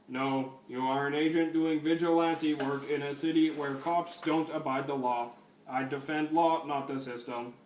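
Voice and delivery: lightly voiced robot cop, even pitch; RoboCop. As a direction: do a bad stiff robot officer. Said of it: "That's the worst fucking RoboCop voice ever".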